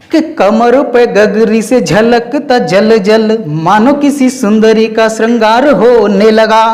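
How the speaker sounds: slow, melodic verse recital; lilting recitation of a chhand; poem recitation. Acted. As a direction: savour each line like a romantic poem. Continues the chhand.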